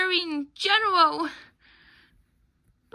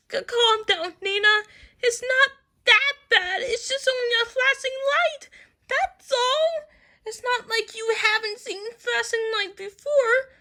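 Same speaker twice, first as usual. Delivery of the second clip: tearful fear; 4 semitones higher, 5 dB louder than usual. Acted. Nina soothing herself, tearful.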